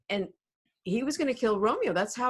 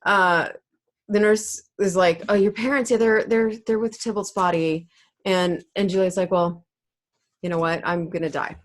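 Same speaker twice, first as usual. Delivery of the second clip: loud amused retelling; 6 dB louder than usual. Real, not acted.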